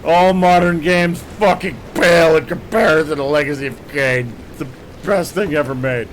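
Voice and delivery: loud, slurry barroom tirade at a game; drunk rant. Pretend. Streamer rants loudly for a viewer's request, drunk. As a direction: bellow it like a drunk at closing time. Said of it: "Kane wants a drunk rant".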